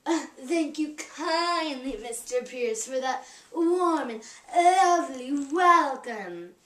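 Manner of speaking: a lightly voiced Gold Rush diva accent, slow; slow and grand in a light period accent; Lola Montez accent. Girl voices Lola Montez's stage line in a slow, light period accent. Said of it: "in the accent".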